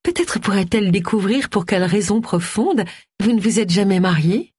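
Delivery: honey-coated probing question. Acted. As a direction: needle them sweetly. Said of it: "dit Gwen d'une voix mielleuse".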